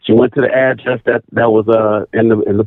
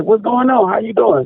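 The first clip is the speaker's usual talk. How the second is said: retold greeting; 9 semitones higher than usual. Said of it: "I'm like".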